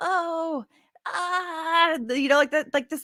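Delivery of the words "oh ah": high, feeble, weak, emotional little oh. Describing how she raises her voice to sound weak: mock-weak, emotional raised 'oh'. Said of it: "raises it too when she wants to sound so, like, weak and, like, emotional".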